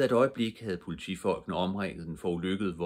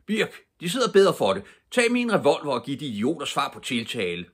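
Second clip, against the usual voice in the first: loud, high barked order over gunfire; commanding shout; 8 semitones higher, 7 dB louder than usual. Acted. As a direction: yell the command across the car. Commissioner orders during shootout.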